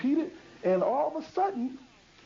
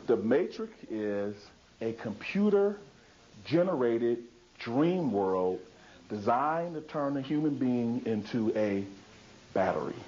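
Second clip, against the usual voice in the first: Morpheus quote; 10 semitones lower, slower than usual. Retold or imitated. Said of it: "he says".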